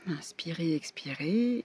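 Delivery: whispered breathe-in cue; soft guided meditation whisper; guided breathing. Shown as a demonstration. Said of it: "vous allez pouvoir fermer les yeux". (murmure de méditation guidée)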